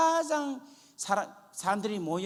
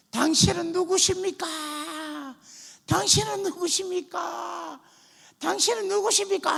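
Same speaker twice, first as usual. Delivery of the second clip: wailing cry; 11 semitones higher, 5 dB louder than usual. Retold or imitated. Dreamer crying to the sky, retold as a loud high wail. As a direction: re-enact a desperate wail, voice pitched way up. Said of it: "하면서 막 울더라는 거예요".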